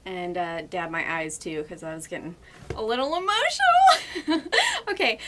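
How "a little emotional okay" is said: high, louder laugh through tears; teary laugh. Real, not acted. Telling viewers she dabbed her eyes, teary laugh. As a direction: laugh off the emotion.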